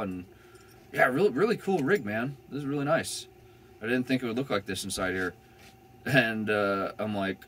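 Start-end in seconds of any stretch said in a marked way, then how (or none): 0.9-4.8 higher, impressed officer voice; admiring cop. Retold or imitated. Cop admiring the van build, voiced higher. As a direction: gush about the van as the cop.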